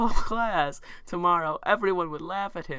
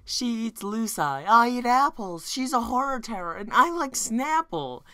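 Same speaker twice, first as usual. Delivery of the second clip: high sing-song rhyme; 6 semitones higher, 4 dB louder than usual. Acted. Song-like quote in dramatic reading.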